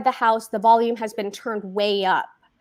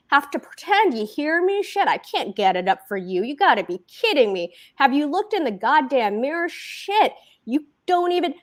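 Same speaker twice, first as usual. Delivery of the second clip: higher, sneering insults; higher scornful insults; contemptuous rant; 5 semitones higher than usual. Acted. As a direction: sneer at her in disgust. Husband insulting wife.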